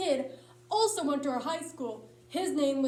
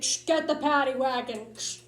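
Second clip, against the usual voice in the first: walkie-talkie. Retold or imitated. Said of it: "leaned into his walkie-talkie".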